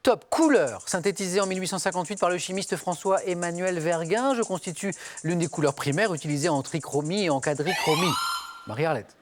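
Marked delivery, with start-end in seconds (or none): 0.3-8.1 measured quiz-host reading over music; quiz clue read. Acted. Host reading a clue to the contestants, measured and clear.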